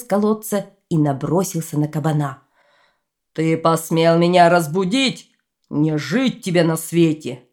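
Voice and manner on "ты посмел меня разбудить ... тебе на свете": furious dragon. Acted. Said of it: "Дракон ужасно рассвирепел".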